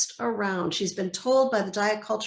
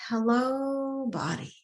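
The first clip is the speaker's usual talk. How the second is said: gentle greeting; 3 semitones higher, slower than usual. Shown as a demonstration. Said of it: "really to start with".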